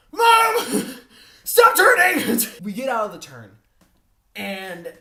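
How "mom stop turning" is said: high frantic yell at mom; panicked yell. Retold or imitated. Yelling at mom to stop turning the car, panicked shout. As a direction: shout it in a panic, laughing through it. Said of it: "and I'm just like".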